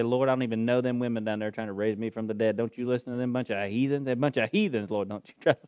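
hammed-up outcry against the heathens; mock loud complaint. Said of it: "I say".

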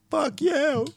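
mock retort. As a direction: fire it back like the tired partner. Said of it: "And she's like".

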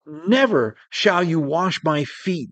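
Peter's stubborn, insistent no to Jesus; emphatic refusal. Acted. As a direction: plant your feet and refuse him, word by word. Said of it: "And Peter was emphatic".

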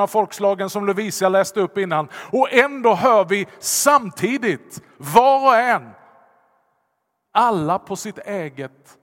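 loud, high, rising sermon fervour; preaching at full force. Acted. Pastor preaching to the congregation with loud fervour. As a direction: preach it out to the whole church. Retells Pentecost amazement.

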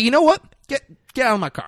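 sudden high, loud snap; furious cop kicking his partner out; mock outburst. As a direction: blow up at the rookie. Denzel explodes at rookie.

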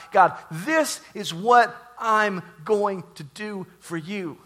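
slow, drawn-out declaration to God; solemn vow. Acted. Camper making a declaration to God at camp's end, solemn and slow. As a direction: declare it word by word, very slowly.

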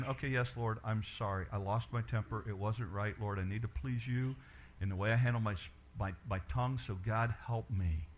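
low, soft confession to God; understated, hushed apology in prayer; contrite prayer. Acted. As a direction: quietly own up and ask for help. Acts out confessing sin in prayer.

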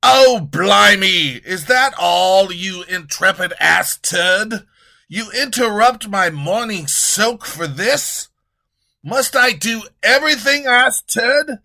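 loud, high blustering king; loud, high king scolding his treasurer; pompous ranting king. Acted. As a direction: bluster at the servant.

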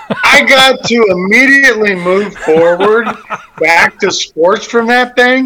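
talking through real laughter; can barely get it out for laughing; host recovering from a bad joke, laughing. Real, not acted. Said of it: "laughing at own bad joke".

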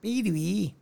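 light mock Scottish lilt on "By the way"; a Scots tag line, lightly put on; imitating a Scot saying "by the way"; Scottish accent. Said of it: "That was my Scottish accent".

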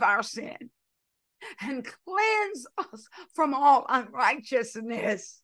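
drawn-out, emphatic scripture preaching; impassioned preaching. Real, not acted. Preacher telling congregation that confession relieves guilt, impassioned. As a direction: stretch the key words with conviction.

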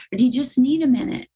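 normal talking voice

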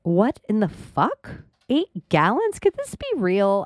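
incredulous, voice jumping up on gallons; can't believe what she just heard; stunned, rising disbelief; shocked disbelief. Real, not acted. Shock at eight gallons claim.

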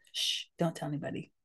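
quick hushed aside; hushed secret. Pretend. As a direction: hush it like sharing a secret. Joking about ordering secretly.

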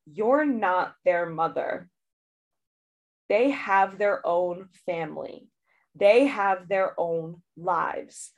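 slow, steady, reassuring; calm husband's words. Retold or imitated. Husband calmly reassuring his sobbing wife, slow and steady. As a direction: lay it out slowly, like a calm husband. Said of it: "said this simple thing".

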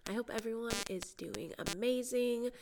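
stuffy nose; congested, sniffly head cold voice. Real, not acted. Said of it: "I do have a cold".

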